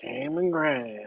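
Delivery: high mock announcer call. Calling out name.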